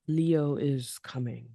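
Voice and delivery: slow rumbling lion-king voice; Mufasa voice. Acted. Co-host doing a Mufasa line back, slow rumble. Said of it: "was that your Mufasa voice?".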